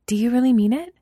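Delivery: put-on high eager girl; hopeful eager question. Mina eager.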